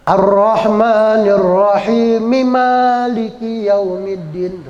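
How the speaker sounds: slow chanted recitation. Shown as a demonstration. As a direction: draw the verse out slowly. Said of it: "baca wasol, terusin, hidup".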